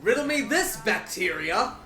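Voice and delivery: villain taunt. Pretend. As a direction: tease it like a gloating villain. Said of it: "I can actually say this in the call".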